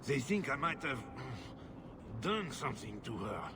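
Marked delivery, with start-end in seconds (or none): 1.0-2.2 reluctant sigh. Acted. Husband hesitates mid-admission.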